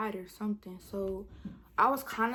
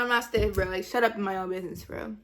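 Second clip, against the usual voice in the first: louder retold comeback at the guy; mock loud retort; 5 dB louder than usual. Retelling how she told the boy off at the movies, loud. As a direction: snap back at him, louder. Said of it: "I was like".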